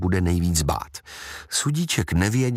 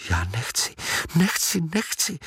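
inner cry; 8 semitones higher than usual. Acted. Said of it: "vykřikl v duchu Sudíček".

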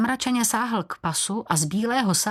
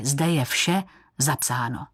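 ordinary delivery

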